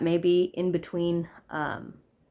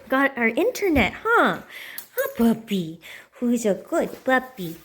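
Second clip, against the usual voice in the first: cooing pet voice; gushing over the puppy; 5 dB louder than usual. Real, not acted. Talking to the puppy.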